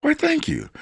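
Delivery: gracious Southern thank-you; Southern accent. Retold or imitated. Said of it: "I've adopted the".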